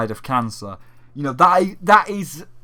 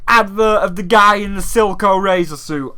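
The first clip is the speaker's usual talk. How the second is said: high, loud, gushing presenter; mock cheery host; 6 semitones higher, 7 dB louder than usual. Mocking the host praising the speech, high and loud. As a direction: gush over the speech then pivot to ads. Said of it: "you're just coming back like".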